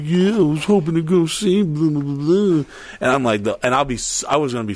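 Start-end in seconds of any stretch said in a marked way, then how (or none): 0.0-2.6 lightly mocking girl's voice, a bit higher; imitated girl. One of the girls spilling the secret, lightly mocked chatter. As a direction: mimic a chattering girl giving it away. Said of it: "one of these girls".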